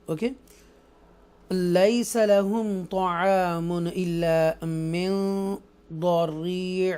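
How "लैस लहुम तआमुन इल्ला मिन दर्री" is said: slow drawn-out tajweed recitation; Quran recitation. Shown as a demonstration. Teacher recites the next verse for students, slow melodic chant. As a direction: chant it slowly and evenly.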